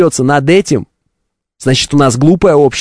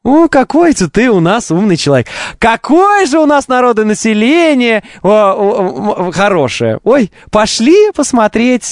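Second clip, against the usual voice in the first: sarcastic; 6 semitones higher than usual. Retold or imitated. Sarcastic mock praise.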